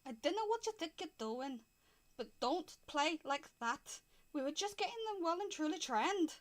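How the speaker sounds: lightly voiced tiny piper telling someone off; a touch of grievance in a little man's voice; indignant little man. Tiny piper scolds Winston over playing, lightly indignant little man. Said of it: "tiny men".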